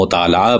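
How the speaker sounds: مطالعہ said as mutaala, ain dropped; مطالعہ clipped to mutaala; variant pronunciation. Shown as a demonstration. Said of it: "مثال کے طور پر لفظ مطالعہ".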